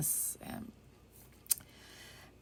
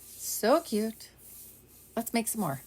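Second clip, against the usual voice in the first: louder, higher delighted squeal; excited gush; 4 semitones higher, 4 dB louder, slower than usual. Pretend. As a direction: burst out with delight.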